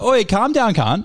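indignant phone retort; retold arguing back. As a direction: act out telling an angry mate off. Acted phone quarrel, arguing back.

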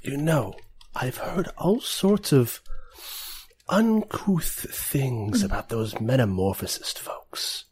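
slow, halting in-character confidence; leaning in to confide. Acted. Woman leans in about metamorphosist folks, lightly voiced confiding. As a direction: share a distasteful rumour, picking words slowly. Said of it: "she leans in and she says".

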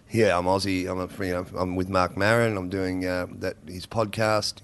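laid-back Aussie accent, slightly low; Australian accent. Shown as a demonstration. Guest showing how he talks to his friends, in an Australian accent. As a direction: chat to mates in a casual Australian accent. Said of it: "when I'm with my friends, I talk like that".

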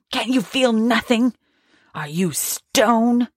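a grieving woman's bitter outcry; bitter accusation. Acted. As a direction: demand an answer from him.

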